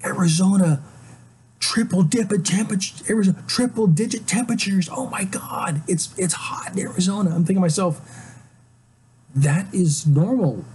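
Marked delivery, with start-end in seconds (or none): 0.0-7.3 higher, breathless hype with whispered oh my gods; mocking alarmed weather news, somewhat higher; mock excited newsreader. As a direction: parody an overexcited radio report. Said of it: "in a kind of excited kind of voice".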